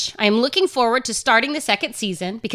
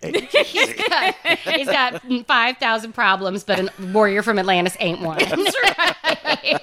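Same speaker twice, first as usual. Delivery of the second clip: cracking up at your own riff; laughing through it. Real, not acted. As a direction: joke line broken up by real laughter. Riffing on a rapper's joke.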